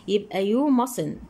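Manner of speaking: "you mustn't" drawn out slowly, each word spaced; slow emphatic answer. Shown as a demonstration. Teacher repeats the answer slowly so students catch it. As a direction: spell the answer out slowly for the pupils.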